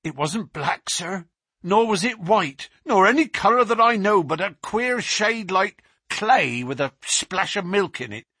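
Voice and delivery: the policeman reliving the face at the window; terrified constable. Acted. Constable Walters telling Baines and Holmes of the beast, high and terrified.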